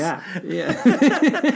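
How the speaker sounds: high, loud laughing yeah. Real, not acted. Laughing at own pun.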